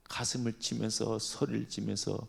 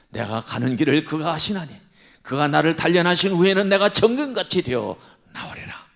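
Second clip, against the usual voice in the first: loud, rising declaration of faith; fervent confession; 3 semitones higher, 10 dB louder than usual. Retold or imitated. Job declaring his trust in God despite his loss. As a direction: proclaim it with conviction.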